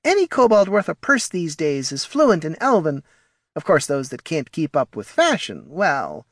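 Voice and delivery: very high, prissy little voice; fussy, superior small kobold; haughty kobold Morty. Acted. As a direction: lecture primly in a tiny high voice.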